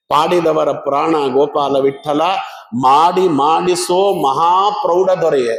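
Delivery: slow, drawn-out hymn lines; devotional verse recitation. Acted. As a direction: chant it reverently.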